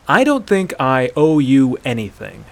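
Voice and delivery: dead serious. Acted. Hunter refusing the debt to Aela, dead serious. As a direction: state it with crushing finality. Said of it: "dropped back to a dead serious tone".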